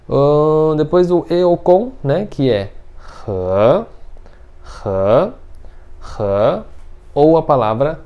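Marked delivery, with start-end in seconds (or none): 3.3-6.6 he starting low and climbing; rising-tone he. Shown as a demonstration. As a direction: begin he at the bottom and slide up. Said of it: "você começa embaixo e você vai subindo".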